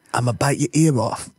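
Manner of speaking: lightly voiced boxer impression; Mike Tyson. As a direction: make a mock boxer's threat. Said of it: "It's me, Mike Tyson".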